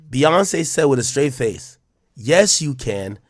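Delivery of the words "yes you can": slow, lightly imitated Texas drawl; a hint of unhurried Texas reassurance; calm Texas drawl. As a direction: say it slowly, mildly Texan. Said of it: "in that calm Texas drawl".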